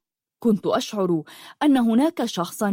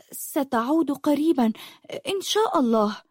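trembling voice; 6 semitones higher than usual. A narrator's reading. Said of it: "بصوت مرتجف".

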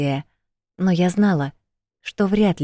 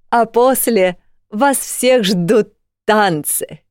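high, loud, slow grand announcement; festive announcer; 5 semitones higher, 4 dB louder, slower than usual. Acted. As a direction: present the star act proudly. Rector announces festival performer.

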